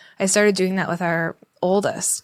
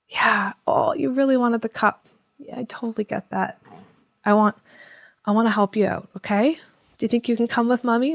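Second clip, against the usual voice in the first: calm soothing voice; 3 semitones higher than usual. Shown as a demonstration. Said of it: "me just talking to you like that".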